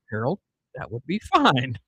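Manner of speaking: imitating an unruffled South Dakota counterman; lightly voiced South Dakota slow talker; slow South Dakota accent. Counter guy answering dad's threat, slow South Dakota accent. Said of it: "real slow talking".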